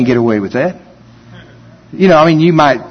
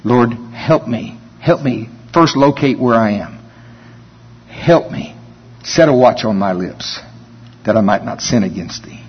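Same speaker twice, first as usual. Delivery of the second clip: prayer; 3 semitones lower than usual. Shown as a demonstration. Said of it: "I encourage you to pray that prayer".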